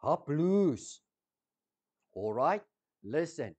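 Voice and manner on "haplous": Haplous said as HAP-loos, stress on the first syllable; Greek word. Shown as a demonstration. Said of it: "That Greek word is haplous".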